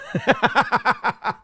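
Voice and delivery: attempted laugh imitation. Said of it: "I can't imitate it".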